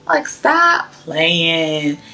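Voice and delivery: very drawn-out emphatic brush-off; slow, insistent repeat of a teasing protest; playful disbelief. Retold or imitated. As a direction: lean hard and slow on stop. Repeats her disbelieving reply, drawn out.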